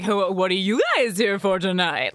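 singsong server greeting; sing-songy waiter voice. Retold or imitated. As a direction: lilt it like a chirpy waiter. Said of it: "talk in, like, a sing-songy voice to you".

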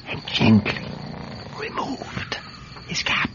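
hushed, breath-held narration; stealthy hush. Acted. Telling how he lifted the sleeper's cap, stealthy hush. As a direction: tiptoe through each word, with careful pauses.

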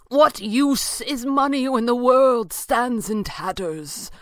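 high, loud, slow plea; crying out. A narrator's reading. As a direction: cry it out in appalled protest. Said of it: "the stranger cried".

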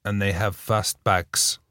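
put-on quiet halting French accent, slow; hesitant coach in broken English, French accent. Coach at the interview, soft halting French accent. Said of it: "he's like".

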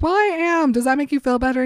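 high, exasperated retort; sarcastic comeback with the pitch pushed up; mock mad. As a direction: snap back in pretend annoyance. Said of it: "now I'm mad at you".

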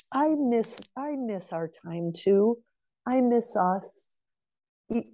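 a softened, yielding plea; soft sorry. Shown as a demonstration. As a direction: soften and go to him sincerely. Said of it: "go to him and say".

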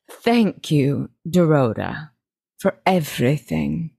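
lightly acted grand lady giving thanks; Eleanor. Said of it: "That was more of a Lily".

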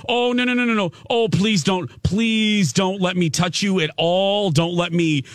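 high-pitched mock desperation; panicked plea. Client silently begging as the therapist grabs the arm, comic panic.

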